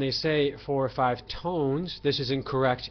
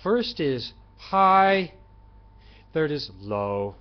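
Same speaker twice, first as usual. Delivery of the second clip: "high" sung much higher and slower, "low" dropped low; high then low tone; 2 semitones higher, 6 dB louder, slower than usual. Shown as a demonstration. Teacher singing the high and the low tone for students. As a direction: sing "First is high" up high, then drop for "low". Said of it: "You sing the first and the third".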